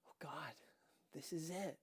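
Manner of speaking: breathy whisper of dread; hushed terrified whisper; panicked whisper. A narrator's reading. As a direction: whisper it like doom is here. Narrator panics internally.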